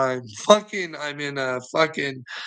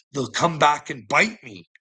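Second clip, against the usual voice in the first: ordinary talk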